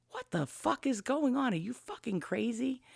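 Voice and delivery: a hint of a furious father woken up; father woken from sleep, snapping at his child in mock anger; imitating angry father. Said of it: "he was really angry".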